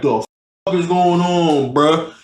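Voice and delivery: lightly voiced slow, drunken bafflement; drunk guy's confusion. Drunk man interrupted in bed, lightly mocked confusion.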